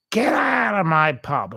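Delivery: a hint of a furious East End pub landlady throwing someone out; Barbara Windsor. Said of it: "as, um, Barbara Windsor would say".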